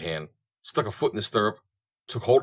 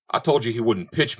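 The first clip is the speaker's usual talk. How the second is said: snapped; 3 semitones higher, 3 dB louder than usual. Acted. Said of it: "snapped Colby".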